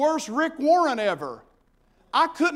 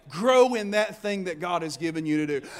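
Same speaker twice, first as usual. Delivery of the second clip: shouted repeat; 5 semitones lower than usual. Shown as a demonstration. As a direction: drive the line home to the congregation.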